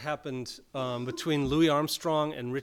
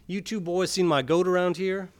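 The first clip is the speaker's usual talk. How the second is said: put-on a folksy rural farmer accent, pitched up and louder; 5 semitones higher, 8 dB louder than usual. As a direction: holler like a country farmer with a thick rural accent. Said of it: "in his accent ripe as rotten pears".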